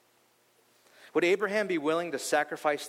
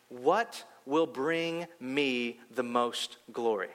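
slow, solemn, set-apart voice of God; 3 semitones lower, much slower than usual. Retold or imitated. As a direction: let each word fall slowly like a voice from above. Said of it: "I heard God say".

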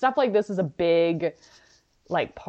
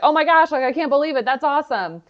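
much higher, louder gushing; hammed-up delight over a cruise; mock excited husband; 8 semitones higher, 4 dB louder than usual. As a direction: imitate a thrilled winner. Husband excited about fake prize.

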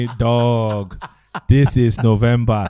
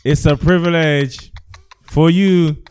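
big top announcer, louder and higher; ringmaster; 5 semitones higher, 3 dB louder than usual. Pretend. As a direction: hype the crowd like a circus ringmaster. Podcast intro, showman announcement.

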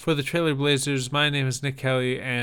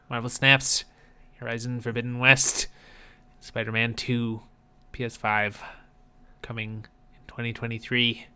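lightly put-on public-radio host; measured story-show host with halting phrases; Ira Glass. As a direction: read out a preview like a radio host, pausing between items. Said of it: "I can't do this voice forever".

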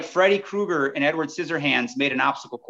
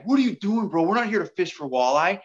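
lightly voiced muskie guy, pitched up at first; typical muskie guy. Fishing buddy questioning the walleye rod, lightly voiced muskie guy. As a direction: imitate a buddy's incredulous challenge. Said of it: "typical muskie guy".

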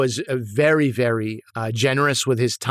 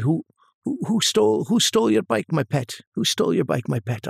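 put-on Scottish accent; 3 semitones higher than usual. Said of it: "like, Scottish accent, I think".

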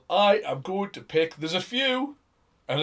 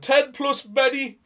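squeaky silly voice; 9 semitones higher, slower than usual. Acted. Same silly character.

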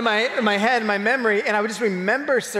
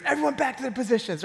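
higher, quick mock field call; coach calling out; 5 semitones higher, faster than usual. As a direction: imitate a coach ordering players back. Coach retold calling out orders.

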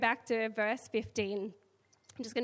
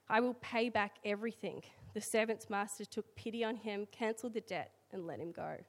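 scripture reading. Acted. Reads the scripture passage aloud.

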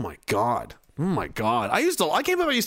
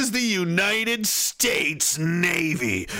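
trailer announcer voice; slower than usual. Pretend. Grand announcer parody.

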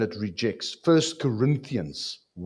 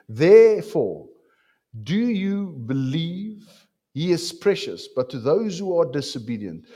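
scripture reading; 4 semitones higher, 4 dB louder than usual. Acted. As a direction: read it out with weight.

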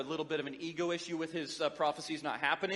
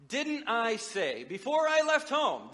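whiny complaint; 5 semitones higher, 4 dB louder, slower than usual. Acted. Jonah complaining to God.

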